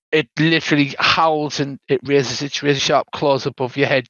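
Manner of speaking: ordinary delivery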